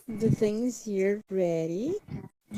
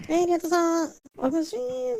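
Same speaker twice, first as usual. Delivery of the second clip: cheerful greeting; 8 semitones higher than usual. Real, not acted. Greets a viewer joining the chat.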